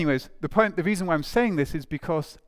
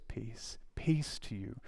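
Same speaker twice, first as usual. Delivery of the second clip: soft, slightly lowered, calming greeting; hushed; 3 semitones lower, 10 dB quieter, slower than usual. Acted. Jesus greeting the gathered disciples, hushed. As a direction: say it softly, to settle them.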